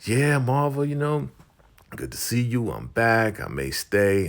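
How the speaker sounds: high-pitched acted greeting; high voice easing down by the end; put-on polite reply. Lynn's strained reply to Marva.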